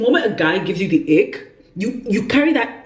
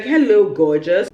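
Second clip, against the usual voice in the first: slow mock flirty greeting. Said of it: "he's like".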